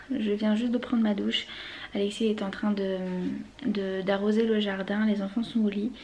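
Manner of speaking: hushed voice, partly whispered; hushed late-night voice. Real, not acted. Late evening, children asleep.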